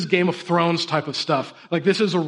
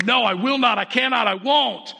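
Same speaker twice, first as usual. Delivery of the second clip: half-hearted mock yell, pitched up; mock defiant yelling; 4 semitones higher than usual. Preacher imitates himself standing firm, mad, mock defiant. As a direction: act out stubborn defiance without a full shout. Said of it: "I'm yelling and screaming and going".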